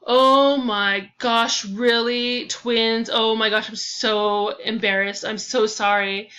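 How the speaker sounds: stunned, then apologetic; apologizing to the twin for the mix-up; embarrassed shock. Acted.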